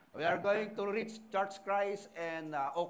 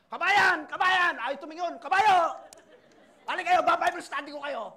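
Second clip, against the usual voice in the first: loud, higher shouts across the street; mock street call inviting people to Bible study; 8 semitones higher, 11 dB louder than usual. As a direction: hail passing Filipinos to come over. Calling out to strangers.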